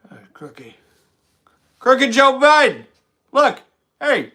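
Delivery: a hint of an old Biden, slow on the name; lightly voiced Joe Biden calling out; mock Biden heckling his rival; Joe Biden impression. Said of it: "It's my Biden wig".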